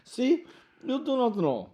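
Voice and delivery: high, mock Russian accent. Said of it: "talking in Russian accent".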